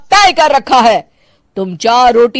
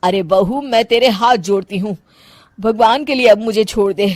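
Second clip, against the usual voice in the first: weary pleading; 2 semitones lower, 5 dB quieter than usual. Acted. Old mother-in-law begs for mercy.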